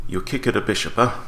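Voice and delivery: lightly put-on Italian accent; playful hint of an Italian accent. Chess player mock-confronts opponent over bishop, light Italian accent. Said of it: "doing it in Italian accent".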